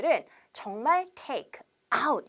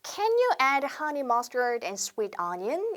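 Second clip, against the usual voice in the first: slow, careful order phrase; slow classroom demo; slow model sentence; much slower than usual. Shown as a demonstration. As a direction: read it word by word for repeating. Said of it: "보세요".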